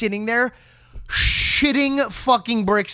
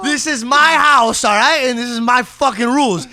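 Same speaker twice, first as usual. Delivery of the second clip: retold scolding; 3 semitones higher, 4 dB louder than usual. Telling dad house rules.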